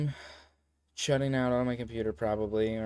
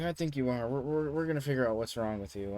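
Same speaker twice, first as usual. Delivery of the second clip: put-on slightly raised voice for the girl; imitated insistent girl; 3 semitones higher than usual. Girl announcing she'll diagnose her study partner, mildly imitated insistence. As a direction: lightly voice her, pushing the diagnosis.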